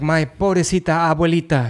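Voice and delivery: hint of a mock Puerto Rican accent; Spanish words in a lightly mocked Puerto Rican accent; AOC impression. Congresswoman pitying her grandmother, mock Puerto Rican accent. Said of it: "she was like".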